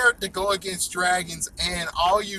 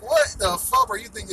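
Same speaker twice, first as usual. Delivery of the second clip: mock angry; 9 semitones higher, 5 dB louder than usual. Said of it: "It's like".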